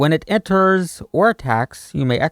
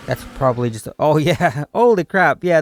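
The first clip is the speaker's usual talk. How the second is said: from a murmur to a shout of delight; hushed then yelling excitement. Real, not acted. Card reveal, sudden excited outburst.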